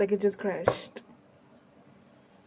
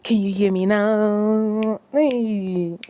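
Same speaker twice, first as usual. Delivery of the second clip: calling out; 7 dB louder, slower than usual. Real, not acted. Calling out to game.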